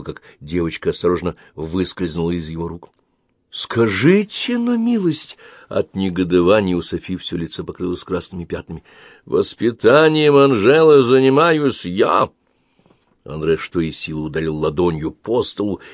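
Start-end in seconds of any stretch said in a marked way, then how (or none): 3.5-5.4 high, slow indignant wife; outraged, mocking the husband; wife bristling at husband. A narrator's reading. Wife's indignation in quarrel. 9.2-12.3 louder, slow angry husband; husband shouting at wife; angry declaration. A narrator's reading.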